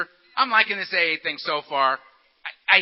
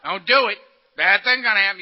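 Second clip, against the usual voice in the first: mock threat; 7 dB louder than usual. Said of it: "I'm mad dogging this guy".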